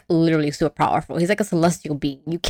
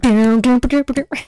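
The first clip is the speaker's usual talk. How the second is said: higher-pitched mouthed jingle; imitated theme tune; 5 semitones higher than usual. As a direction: mimic a theme song with nonsense sounds.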